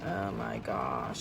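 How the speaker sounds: deep, slow stunned sigh; low breathy oh my gosh. Real, not acted. Reading old letters, stunned.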